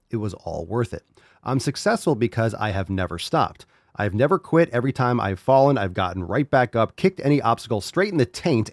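reading a fan post with lively emphasis. Acted. Host reads Heidi's inspirational post aloud, energetic read.

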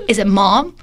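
slow, pointed English question; mock his nagging tone; imitating husband's questioning. Wife mimicking husband's interrogation, slow and pointed. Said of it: "你刚刚一直说".

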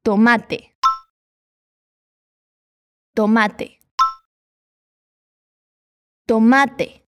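"tomate" with a plain t at the end, never a Brazilian tchi; Spanish tomate. Shown as a demonstration. Teacher drills the learner, final t kept hard. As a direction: model "tomate" clearly, final te stays te. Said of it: "Repete para fixar bem".

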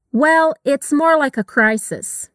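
very slow, careful sentence; slow model reading. Shown as a demonstration. Teacher modeling the line slowly. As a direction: read it slowly for repetition. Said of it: "Capricha aí no som do S".

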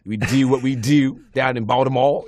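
Baltimore vowels, fronted "do"; Baltimore accent. Shown as a demonstration. Actor proving his accent to castmate, Baltimore accent. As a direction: show off a local Baltimore accent. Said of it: "you got a Baltimore accent in that?".

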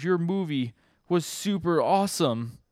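high, slow, gushing praise; excited. Acted. Girl praising the boy's movie, excited. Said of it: "like, excited".

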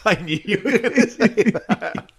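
high, loud Cockney jibe; bad Cockney accent. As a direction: jeer it in an overdone Cockney accent. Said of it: "putting bad Cockney accents aside".

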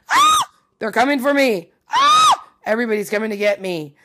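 very high shrieks between loud, high cries; hammed-up kid panic, shrieking as if being chased; mock panicked screaming. Acts out childhood panic at seaweed.

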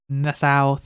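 badly attempted Southern US accent; failed Southern accent. Shown as a demonstration. Host tries the article's words, failed Southern accent. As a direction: have a poor try at a Southern accent. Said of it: "I was literally trying, but I failed horribly".

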